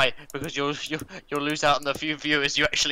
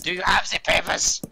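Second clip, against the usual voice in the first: louder, higher fake German demand; mock German official; 4 semitones higher, 5 dB louder than usual. Streamer pressing co-host for papers, emphatic mock German. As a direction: insist in a hammed-up German accent.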